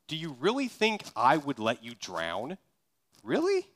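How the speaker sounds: gentle disbelief, the last "Really?" leaps way up; incredulous Jesus. Retold or imitated. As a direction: ask it as if the fear were absurd. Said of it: "maybe what Jesus means is".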